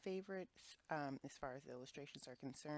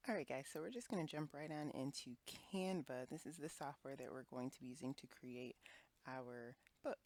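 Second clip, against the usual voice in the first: talking around dental aligners; smacking lips first. Real, not acted. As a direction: wet lip smacks between words. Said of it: "sorry for all the lip smacking and whatnot".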